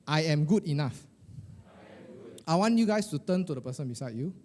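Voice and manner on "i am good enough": firm, raised-voice affirmation; louder. Shown as a demonstration. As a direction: lead the room louder. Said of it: "Okay, louder".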